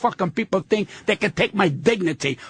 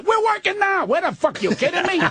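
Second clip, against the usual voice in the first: incredulous outburst; 8 semitones higher than usual. Retold or imitated. Arguing with a singer.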